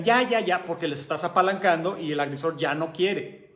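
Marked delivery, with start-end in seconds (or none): 0.0-0.6 mild mock yell. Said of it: "literalmente gritan".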